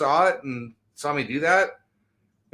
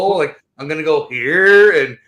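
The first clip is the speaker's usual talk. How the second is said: put-on valley girl voice; 5 dB louder, slower than usual. Shown as a demonstration. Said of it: "she talks like this".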